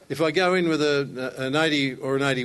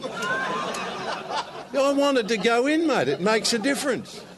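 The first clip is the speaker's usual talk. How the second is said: laughing; 9 semitones higher, slower than usual. Real, not acted. Laughing protest about the putt.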